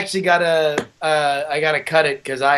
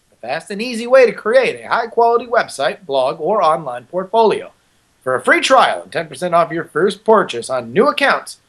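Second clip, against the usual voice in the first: ad read. Shown as a demonstration. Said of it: "one more time".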